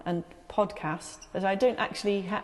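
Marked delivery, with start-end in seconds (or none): 0.5-1.3 podcast with a long ah, slow; podcast drawn out with a broad a. Shown as a demonstration. Guest shows how she says podcast, long broad ah. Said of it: "never lost the ah sound".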